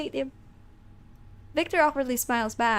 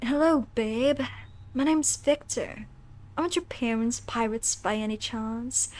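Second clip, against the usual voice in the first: lightly voiced cheesy flirt; cringy flirty guy; 3 dB quieter than usual. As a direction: try a mildly cringy pickup voice. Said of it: "that's the, that's the voice. He's gonna be cringy, flirty guy".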